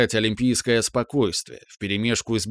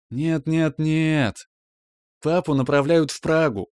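higher, rushing out triumphant news; jubilant blurt; 5 semitones higher, slower than usual. A narrator's reading. Mom telling her son about Prague, jubilant blurt. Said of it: "выпалила она ликующе".

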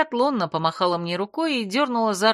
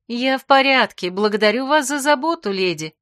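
much higher and louder, for show; loud reply; 5 semitones higher, 5 dB louder than usual. A narrator's reading. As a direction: answer loudly so others hear. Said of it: "громко ответила я". (громко, на публику)

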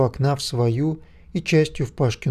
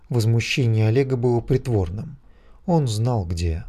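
ordinary delivery

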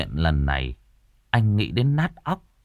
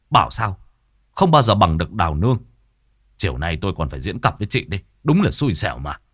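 mild angry retort; faster than usual. Acted. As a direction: hit back at her without shouting. Châu retorting to Tư Hiền.

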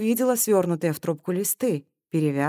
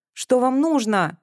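slow, higher, frightened question; trembling voice; 7 semitones higher, 4 dB louder, slower than usual. A narrator's reading. Cornered girl asks the man, voice trembling. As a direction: ask fearfully, backed against a wall. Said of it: "дрожащим голосом спросила она".

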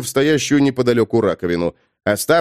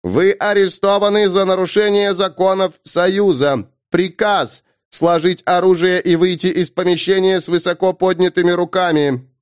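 raised, mechanical police robot; booming metallic robot; 5 semitones higher than usual. Acted. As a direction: order it like a machine cop. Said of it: "громкий металлический голос".

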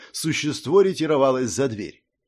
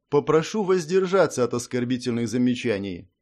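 ordinary delivery, nothing marked

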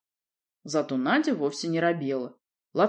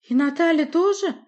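put-on high, girlish pleading voice; a lioness girl, flustered and breathless; girlish high voice, anxious; young princess voice; 11 semitones higher, 7 dB louder than usual. Nadya's voice, high.

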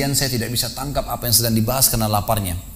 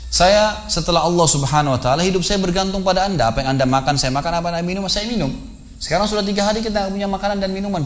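pleading student; 6 semitones higher than usual. Acted. Murid memohon kepada guru, lapar.

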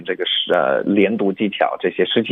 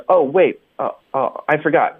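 higher, halting "oh" as if losing the thought; slight stammer; 6 semitones higher than usual. Retold or imitated. Teacher imitating Phoebe forgetting her words, slight stammer. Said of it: "稍微口吃了一点".

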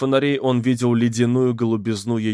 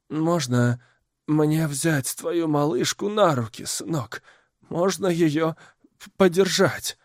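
put-on old woman voice; 5 semitones higher than usual. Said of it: "Она протянула дрожащие руки".

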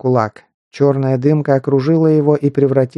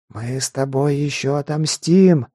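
hissing voice. Acted. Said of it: "шипящий голос".

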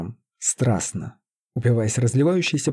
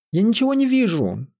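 hysterical shriek; 10 semitones higher than usual. A narrator's reading. Лиза to the pleading sorcerer, hysterical shriek. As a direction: squeal it high in panic. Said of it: "истерично взвизгнула она".

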